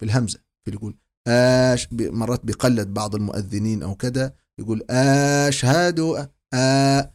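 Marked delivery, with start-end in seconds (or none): 4.6-7.1 أشهد with the hamza drawn out like a question آشهد; mock wrong lengthened hamza. Shown as a demonstration. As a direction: stretch the opening أ of أشهد as if asking. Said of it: "وكأن همزة استفهام".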